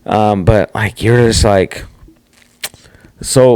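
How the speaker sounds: usual speaking voice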